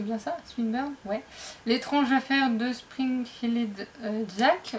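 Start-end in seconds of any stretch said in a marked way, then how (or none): 1.7-4.7 bad English accent. Real, not acted. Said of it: "voilà mon accent pourri".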